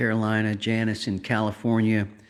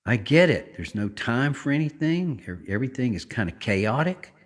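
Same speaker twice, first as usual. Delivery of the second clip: hurried, stressed tone; 2 semitones higher than usual. Shown as a demonstration. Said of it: "do you hear my voice change when I talk like that".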